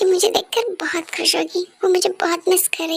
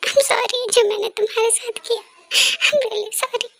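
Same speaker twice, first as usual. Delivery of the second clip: tearful apology; 2 semitones higher, slower than usual. Acted. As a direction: let the tears take the voice. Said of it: "रो मत". (रोते हुए धीमी माफ़ी)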